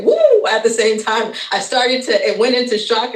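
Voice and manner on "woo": sudden high whoop; a high, loud whoop of joy; excited woo. Real, not acted. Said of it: "I am just a little bit like".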